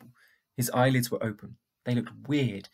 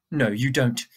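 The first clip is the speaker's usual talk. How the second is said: growled; 7 dB louder than usual. Acted. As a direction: growl it back at him. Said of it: "she growled".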